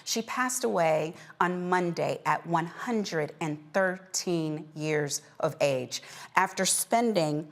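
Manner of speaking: measured anchor reading an obituary; news read. Acted. Host reporting a beloved centenarian's death to viewers, measured news read. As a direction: deliver it as a closing news story.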